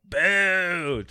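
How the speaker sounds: high, loud parliament jeer; jeering boo. Retold or imitated. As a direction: boo them down. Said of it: "they all just shout".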